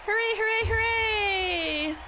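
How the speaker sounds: cheering. Acted. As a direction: whoop with triumph. Cheering the not guilty verdict.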